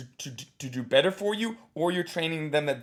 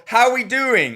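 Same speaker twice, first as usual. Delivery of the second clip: higher, louder hammed-up host; mock comic host; 9 semitones higher, 7 dB louder than usual. Coach mocking comedians, lightly hammed-up. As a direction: ask it like a cheesy comic. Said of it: "a lot of comedians go".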